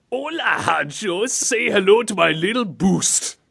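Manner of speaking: high, stretched-out hola; slow, hammed-up character greeting; hammy catchphrase voice. Host acts out a listener's message, hammed-up slow character voice. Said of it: "he's writing in saying".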